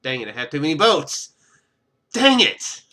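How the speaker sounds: loud, annoyed exclamation; frustrated outburst. Real, not acted. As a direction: blurt it out in frustration. Frustrated at game mistake.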